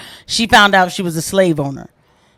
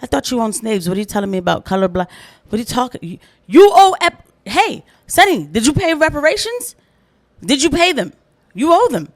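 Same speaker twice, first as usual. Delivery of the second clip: pretend confrontation; 4 semitones higher, 3 dB louder than usual. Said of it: "I'm gonna say it to Sonny like that".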